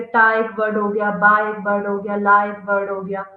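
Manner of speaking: टा, बा, ला each hit in turn; syllables stressed. Shown as a demonstration. Teacher listing syllables of टेबल, stressing each one. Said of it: "कुछ इसका word नहीं है।".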